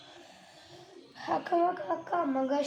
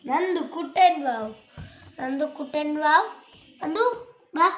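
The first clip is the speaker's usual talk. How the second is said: calling out; 4 semitones higher, 5 dB louder, slower than usual. Real, not acted. Calling little brother.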